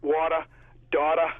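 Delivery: "Water, daughter." with both final er said as "uh"; r-dropped endings. Shown as a demonstration. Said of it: "make the E R a A".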